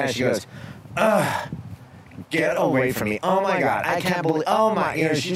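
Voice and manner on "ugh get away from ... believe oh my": freaked out. Retold or imitated. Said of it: "totally freaked out".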